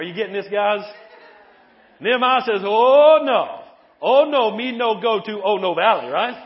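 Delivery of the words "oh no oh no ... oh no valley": booming, drawn-out mock refusal; comic refusal. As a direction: belt out a playful, emphatic no. Acts Nehemiah's comic refusal.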